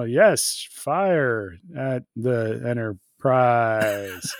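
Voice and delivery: put-on slow, drawn-out hammy Klingon accent; hammed-up Klingon captain, laughing. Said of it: "Captain Claw had a real weird accent".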